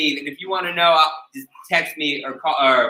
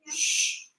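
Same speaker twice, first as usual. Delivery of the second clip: an unvoiced hush to quiet the room; sharp breathy shh for silence; shushing; 9 dB quieter than usual. Real, not acted. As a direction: hush the chattering class. Teacher hushes the class.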